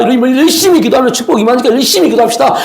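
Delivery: shouted mock sermon, 열심히 pushed up with a rise; mock fervent preaching. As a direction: ham up a fervent preacher calling the crowd to prayer. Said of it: "이렇게 설교하면 얼마나 편해요". (과장된 열띤 설교 흉내, 열심히를 크게 올려서)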